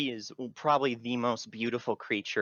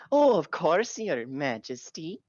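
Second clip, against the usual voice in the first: high eager fairy; 6 semitones higher, 4 dB louder than usual. Acted. Fairy answering the queen.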